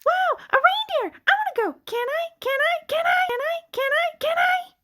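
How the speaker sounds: high, eager pleading, over and over; excited begging. Acted. Sheep begs friend to visit the reindeer, excitedly pleading. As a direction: beg like a kid who can't wait.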